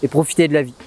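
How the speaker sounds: loud, pressing the point; loud urging. Real, not acted. Emphatic urging to viewers.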